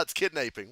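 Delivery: put-on "kidnapping" said carefully with a long a, kid-NAY-ping; kidnapping corrected. Shown as a demonstration. Correcting a friend's mispronunciation, says "kidnapping" carefully. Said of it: "No, it's not".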